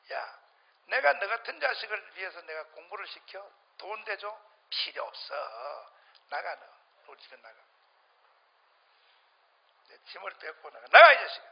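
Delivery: father throwing his son out; retold scolding. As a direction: rebuke the son, erupt at the end.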